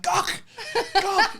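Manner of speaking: mock shouting a celebrity's name; calling out. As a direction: yell to get his attention. Shouting to celebrity across dancefloor.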